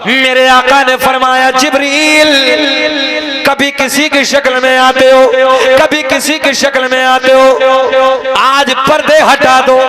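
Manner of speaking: rhythmic chanted lineage, held at full preaching force; preaching recitation. Acted. Preacher reciting the lineage to the gathering, full preaching. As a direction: intone each name to the crowd like a sermon. Hadith with Jibreel's words.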